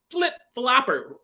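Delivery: each syllable of "Flip-flopper" drawn out very slowly; slow emphatic repeat. Real, not acted. Slamming Kat as a flip-flopper, slow and emphatic. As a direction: lean hard on "Flip-flopper", dragging it.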